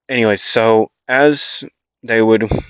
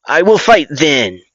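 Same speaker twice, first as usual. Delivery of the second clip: eager volunteering; 5 semitones higher, 4 dB louder than usual. Acted. Eager child volunteers to fight.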